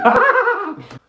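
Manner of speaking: high, loud laugh at herself; high burst of laughter. Real, not acted. Laughing at her own milking joke, high and loud. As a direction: crack up at her own silliness.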